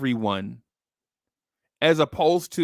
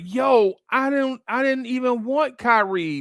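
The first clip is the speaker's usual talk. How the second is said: baffled disbelief; 9 semitones higher than usual. Pretend. Acting own baffled reply.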